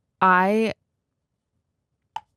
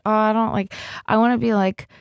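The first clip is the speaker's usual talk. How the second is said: fake shyness; 3 semitones higher than usual. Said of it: "most unconvincing coy impression".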